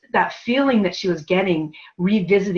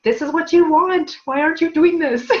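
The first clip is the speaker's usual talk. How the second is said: voicing the soul; 10 semitones higher, 4 dB louder than usual. Client's soul speaking to her.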